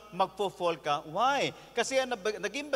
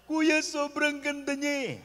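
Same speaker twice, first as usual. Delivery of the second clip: lightly voiced, higher pleading young man; lovesick young man; 5 semitones higher than usual. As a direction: plead like a heartbroken younger brother. (bahagyang mataas, nagmamakaawang binata)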